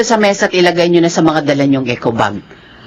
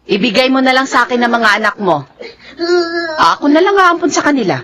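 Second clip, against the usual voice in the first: higher, crying plea; tearful offer; 4 semitones higher than usual. Acted. Loida tearfully offers to take the children herself. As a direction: offer to take them through tears.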